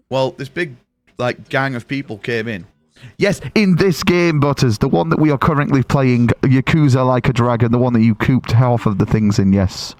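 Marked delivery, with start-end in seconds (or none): 3.2-9.9 loud emphatic answer. Real, not acted. Answering Butters about which game this is, loud and emphatic. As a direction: project every word as if to someone not listening.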